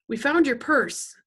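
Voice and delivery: high, loud, drawn-out blurt. A narrator's reading. Freak explaining himself to the gang boss, blurting nervously. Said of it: "Freak blurts out".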